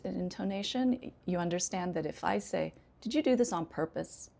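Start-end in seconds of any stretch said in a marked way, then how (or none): 3.0-4.3 mildly accusing question falling on "purpose"; upset falling question. Shown as a demonstration. Teacher showing she already knows the answer, upset falling question. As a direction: ask as if you know already, dropping "purpose". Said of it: "It means I'm upset with you".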